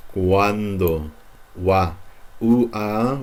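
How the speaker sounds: Cuando with u and a blended into one wa. Shown as a demonstration. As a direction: slide u and a together into wa. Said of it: "pronounce these like wa".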